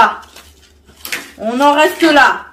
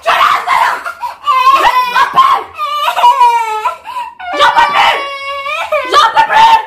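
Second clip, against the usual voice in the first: high, frantic real yelling; exasperated shouting; 13 semitones higher than usual. Real, not acted. Parent ordering a child to let go, exasperated shouting. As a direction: shriek at the end of your tether.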